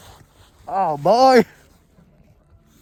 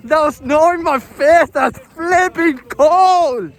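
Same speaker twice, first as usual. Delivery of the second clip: sledding downhill; 5 semitones higher, slower than usual. Real, not acted. Just hit snow at speed.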